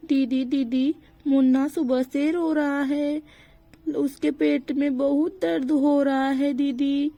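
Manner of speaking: lightly acted anxious appeal; mildly panicked. Mother tells sister-in-law her baby is crying, mildly panicked. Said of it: "तुम इतनी घबराई हुई क्यों हो".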